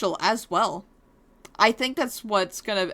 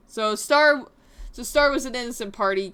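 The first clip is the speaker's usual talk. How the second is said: surprised realization; 2 semitones higher than usual. Acted. Realizing in character.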